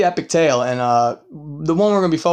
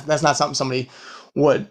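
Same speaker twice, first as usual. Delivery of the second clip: ordinary talk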